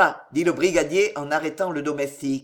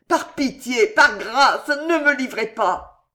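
higher, urgent begging; 5 semitones higher, 4 dB louder, slower than usual. A narrator's reading. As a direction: plead desperately. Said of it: "en joignant les mains".

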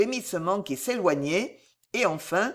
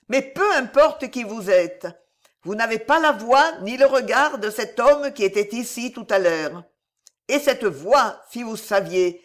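agitated, raised-pitch voice; madwoman; 4 semitones higher, 5 dB louder than usual. Acted. Madwoman tells the chevalier of that voice, agitated and higher. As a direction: insist feverishly, pitched up and loud.

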